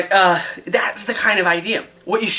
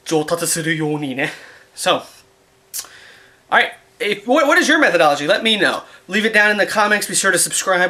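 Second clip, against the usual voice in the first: ordinary talk, nothing marked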